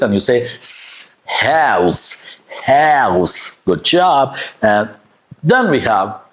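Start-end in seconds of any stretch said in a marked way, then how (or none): 1.3-3.6 "house" ending in a hissed S; fronted OW and crisp S in "house"; sharp unvoiced S. Shown as a demonstration. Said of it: "this S is unvoiced".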